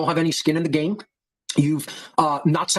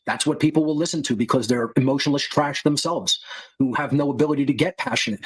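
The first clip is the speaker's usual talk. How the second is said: flat, no emotion at all; emotionless monotone; 2 semitones lower than usual. Shown as a demonstration. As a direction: drain every feeling from it. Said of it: "Let's say it with no emotion in one's voice".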